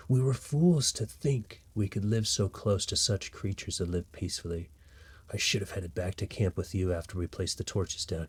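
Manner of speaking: solemn letter reading. Acted. Trapped sibling writes a last letter to sister, solemn. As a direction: read a doomed farewell letter, sinking away softly. Reads a found letter aloud.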